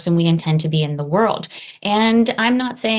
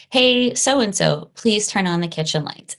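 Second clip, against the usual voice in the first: gently asking the kitchen lights on; polite request to a smart speaker. Retold or imitated. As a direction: ask the device nicely, as if asking a friend. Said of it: "I speak to my home device in the same way that I would speak to you".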